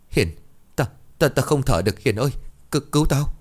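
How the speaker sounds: choking, gurgling. Acted. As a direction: gasp for air as you beg. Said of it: "miệng ú ớ".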